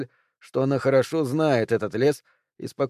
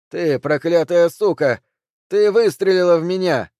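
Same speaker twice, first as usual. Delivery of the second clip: yelling in rage; 6 semitones higher, 7 dB louder than usual. A narrator's reading. Shot husband screams at his wife, furious. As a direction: hurl the curse at her.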